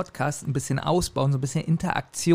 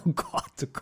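laughing mock dismay; 10 dB quieter than usual. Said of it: "Sie so".

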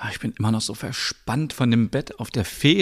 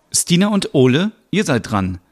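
calling out clients; 5 semitones higher, 4 dB louder than usual. Acted. Staff calls waiting clients.

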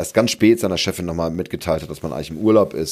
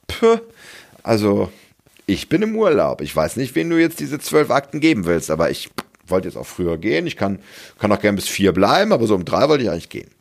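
healthy egoist voice. Retold or imitated. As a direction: play the self-protective inner voice with a sigh. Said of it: "So die gesunde Egoistin". (etwas höhere, seufzende Stimme der gesunden Egoistin)

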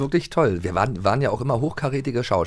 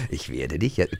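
friendly voice; 8 semitones lower, 7 dB quieter than usual. Retold or imitated. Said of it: "mit freundlicher Stimme".

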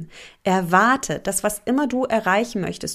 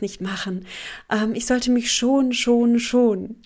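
mock self-pity. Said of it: "so nach dem Motto".

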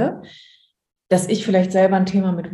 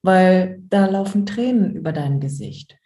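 gentle comforting. Shown as a demonstration. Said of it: "ich kommuniziere, was ich wahrnehme".

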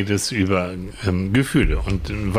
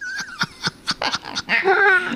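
shrieking laugh, much higher; high burst of laughter. Real, not acted. Laughing at own joke.

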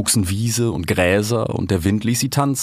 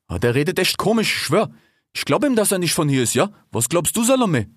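higher, slangy musing cat; cheetah Ishak; 8 semitones higher than usual. A narrator's reading. Cheetah asks his sister about the stranger, high slangy voice. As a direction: confer in a raised street-kid voice.

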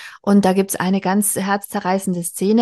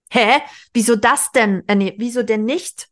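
hissed retort; 3 semitones higher than usual. Acted. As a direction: snap it at her mother, indignant. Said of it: "fauchte sie".

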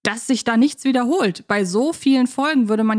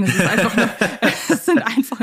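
laughing; faster than usual. Real, not acted. Laughs at own slip.

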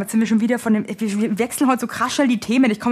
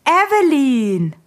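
recognising call; 5 semitones higher, 4 dB louder, much slower than usual. Retold or imitated. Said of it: "meint so".

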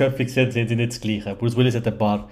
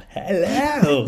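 imitating deep voice; 7 semitones higher than usual. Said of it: "die tiefe Stimme".

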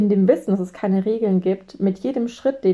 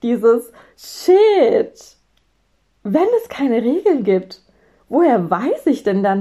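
inner scaredy-cat voice; 3 semitones higher, 4 dB louder, slower than usual. Retold or imitated. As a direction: let the frightened inner hare take over. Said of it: "mein innerer Angsthase hoch".

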